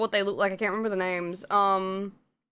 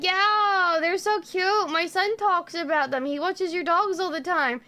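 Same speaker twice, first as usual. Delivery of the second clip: lightly voiced chatty neighbor, higher pitch; gushing neighbor imitation; 6 semitones higher than usual. Neighbor tells her about the son, lightly imitated gushing. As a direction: mimic a neighbor cooing over dogs.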